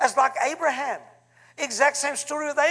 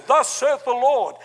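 mock pious voice; 3 semitones higher, 5 dB louder, slower than usual. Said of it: "And we say".

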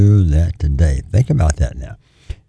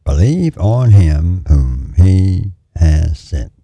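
retold divine voice, lightly done; voice of the Lord; much slower than usual. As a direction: hand down the words as an audible voice from heaven. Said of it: "it seemed to me to be an audible voice".

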